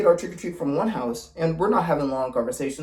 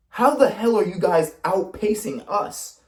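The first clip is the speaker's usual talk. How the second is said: incredulous; 5 semitones higher than usual. Retold or imitated. Baffled at being outpaced by shorter friends.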